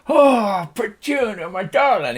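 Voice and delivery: high, gushing farmer's greeting; high cowboy voice full of affection; overjoyed Slim Pickens. Acted. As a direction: coo over a long-lost pet. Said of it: "If you imagine Slim Pickens".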